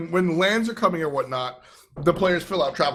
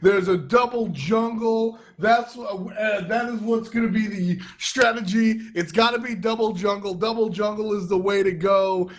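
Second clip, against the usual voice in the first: lightly voiced panicking fan; hammed-up alarm, higher; mock panicked player; 6 semitones higher than usual. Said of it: "Everybody was".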